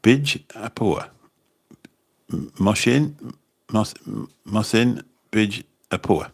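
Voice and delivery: halting, drawn-out go at "Mosin Bij Apua"; careful pronunciation attempt. Real, not acted. Host trying a viewer's surname, "Mosin Bij Apua" said slowly and haltingly. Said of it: "see if I can pronounce your surname".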